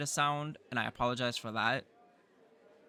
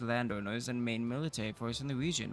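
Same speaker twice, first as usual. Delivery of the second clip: lightly voiced proud town official; city official voice. To the new baron, a lightly voiced proud city official. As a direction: read it as a dignified civic leader.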